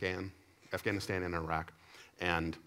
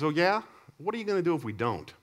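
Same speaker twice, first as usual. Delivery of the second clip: loud, higher cocky challenge from a student; defiant taunt; 9 semitones higher, 5 dB louder than usual. Retold or imitated. Defiant student taunting the new teacher, loud and high.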